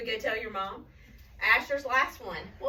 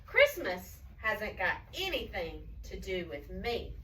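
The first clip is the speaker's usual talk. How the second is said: slowing, lilting storytelling; kind storybook Santa; 4 semitones lower, slower than usual. A narrator's reading. Santa introducing the first Christmas, kindly storytelling. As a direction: lead gently into a tale for children. Reads Santa's words to children.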